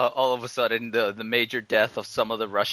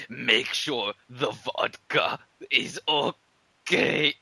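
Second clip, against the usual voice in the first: slow dying last words; mock dying request, very slow; dying soldier's plea; much slower than usual. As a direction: beg the lieutenant with last breath. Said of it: "grabs the lieutenant and says".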